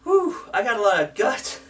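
winded after push-ups; panting between words; out of breath. Real, not acted. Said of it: "it's in my... down here is what gets me".

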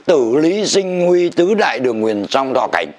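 characters read out slowly in Vietnamese sounds; Sino-Vietnamese reading. Shown as a demonstration. Man showing how Han characters read in Vietnamese, slow Sino-Vietnamese recital. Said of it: "tôi đọc cái chữ này là bằng tiếng Việt".

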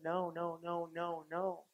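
very soft, repeated no; quiet refusal. Retold or imitated. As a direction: turn down the plea softly. Voices God's refusal.

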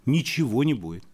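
high, insistent refusal; emphatic dismissal. Real, not acted. Guest tells host diasporas abroad get nowhere, emphatic dismissal. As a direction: reject it outright, pitched well up. Guest rejects host's idea outright.

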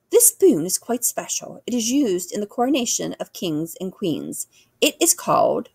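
lightly voiced queen, formal and proud; regal queen, proud. Queen describing her coronation spoon, lightly regal and proud. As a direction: present it with royal ceremony.

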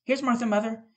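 put-on high excited kids' shout; children crying out. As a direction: cheer at Martha's arrival. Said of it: "cried the two young Cratchits".

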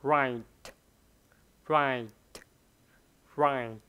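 right with an audible t; right, ending on a crisp t; right with a clear final t. Shown as a demonstration. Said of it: "Mình nghe rất là rõ".

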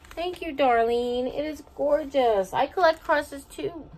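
high, loud excited exclamation. Real, not acted. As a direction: exclaim with delight. Excited reply to Darlene's note.

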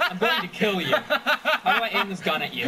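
laughing through the words, loud. Real, not acted. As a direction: threaten while cracking up. Laughing threat in game.

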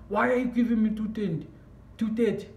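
high, indignant questioning of the cashier; retold angry demand. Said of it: "getting angry and angry".

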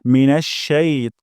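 "শাই ত" ending on a short ত, not তা, slow. Shown as a demonstration. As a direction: clip "মিনাশ শাই ত" to a short ত. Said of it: "এখানে ত উচ্চারণ করতে হবে". ("শাই ত" ছোট ত দিয়ে, তা নয়)

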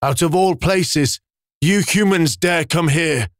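slow, high indignant beast growl; wolf-like beast furious at humans entering its cave; angry beast. A narrator's reading. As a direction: warn the intruders off, outraged. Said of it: "with an angry expression on its face said".

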